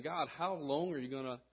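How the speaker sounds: a hint of a desperate prophet; Habakkuk crying out. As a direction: plead with God like you're fed up waiting. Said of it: "he's saying".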